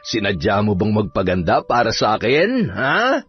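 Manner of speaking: put-on drunken teasing, rising on the last word; lightly voiced drunk drawing out his question; drunk husband. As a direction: tease her like a tipsy husband. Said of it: "Lasing ka na naman".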